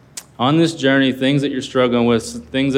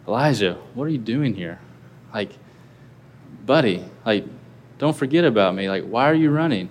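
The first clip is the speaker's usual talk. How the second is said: gentle, friendly question. Shown as a demonstration. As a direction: ask him kindly, as a friend who misses him. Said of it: "you could take that in so many different tones".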